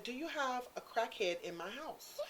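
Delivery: slow and deliberate, each word laid out; slow, spelled-out repeat. Retold or imitated. Slowly repeating to the roommate so he understands. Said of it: "so you can understand me".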